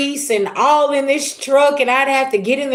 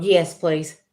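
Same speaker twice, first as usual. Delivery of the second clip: ordinary delivery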